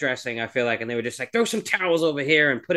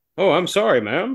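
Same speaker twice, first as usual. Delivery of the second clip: genuine, polite, courteous, higher-pitched gentleman's voice; 5 semitones higher, 4 dB louder than usual. Talking about a movie, imitating how a character now speaks in a real gentlemanly voice. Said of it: "now he speaks with like this real gentlemanly voice".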